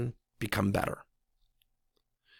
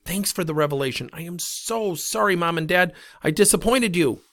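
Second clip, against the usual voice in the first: higher, lightly hammed-up contrite kid; exaggerated fake remorse, pitched up; mock gushing apology; 6 semitones higher than usual. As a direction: pretend to be overly sorry. Mock imagined kids apologizing to parents.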